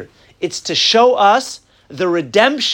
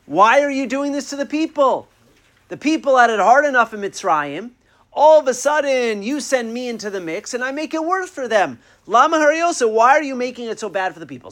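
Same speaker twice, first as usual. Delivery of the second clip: higher-pitched, mildly indignant protest; retold harsh complaint; 5 semitones higher than usual. Moshe questioning Hashem over the people's suffering, mildly harsh complaint. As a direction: plead the people's case, voice raised in pitch. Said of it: "he spoke harshly to Hashem".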